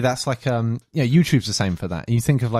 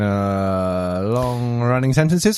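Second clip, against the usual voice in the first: drawn-out pilot announcement drone; much slower than usual. Shown as a demonstration. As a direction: stretch the hesitation and words like a pilot. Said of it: "but they talk in".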